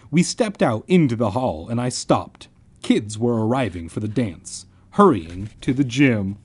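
animated audiobook-style reading; story narration. A narrator's reading. Narrator setting up the school dance, storytelling. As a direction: narrate the scene to listeners.

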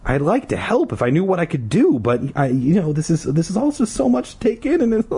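flustered apology. A narrator's reading. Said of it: "P D cried".

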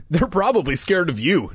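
lightly teasing, pitched a little up; joking. A narrator's reading. Jay joking with frightened Mike, lightly teasing. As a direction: tease a friend lightly. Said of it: "Jay joked".

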